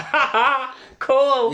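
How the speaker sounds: put-on high, gleeful kid voice; childish excited voice. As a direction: squeal it like a thrilled child. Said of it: "And I thought".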